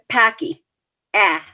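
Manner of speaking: "Packy" with a flattened Boston A; nasal. Shown as a demonstration.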